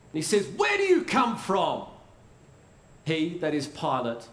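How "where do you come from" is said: lightly acted demanding governor; raised, imperious question, mildly acted; Pilate's demand. Pilate questioning Jesus in his palace, lightly acted demand.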